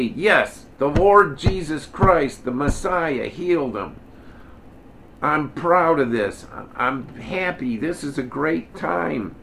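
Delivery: emphatic, drawn-out joyful testimony; proud declaration. Acted. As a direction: proclaim it slowly with punched stresses, proud and happy. Imagines proudly declaring child's healing.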